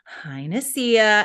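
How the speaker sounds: slow, drawn-out sing-song hello; realtor's greeting. Retold or imitated. Realtor Beth calling again, same slow, drawn-out hello. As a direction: stretch the greeting out like a chirpy realtor. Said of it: "in the same tone, in the same voice".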